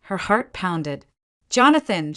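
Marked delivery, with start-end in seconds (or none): 1.5-2.2 high, louder desperate shout; shouting a name. A narrator's reading. Woman trapped in mud shouts for her husband, loud and high. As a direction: yell his name into the rain. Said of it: "she shouted".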